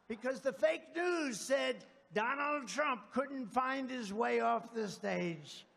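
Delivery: loud, slow mock outrage at the fake news. Rally speaker mocking fake news story, loud slow shout. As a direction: shout it out slowly, hammed up.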